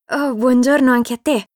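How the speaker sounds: put-on a shy young bird peeping; timid chirp. A narrator's reading. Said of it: "pigolò timida Rachele". (pigolio timido e acuto)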